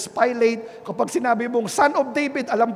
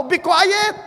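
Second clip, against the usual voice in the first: higher, louder yelled hush; crowd shouting; 8 semitones higher, 5 dB louder than usual. Retold or imitated. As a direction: yell it like an angry crowd. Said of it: "Pasigaw yung mga tao".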